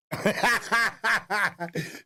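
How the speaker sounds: high amused laugh; real laugh. Real, not acted. Trader laughing as traders take his stop, amused laugh. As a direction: laughs at being hunted.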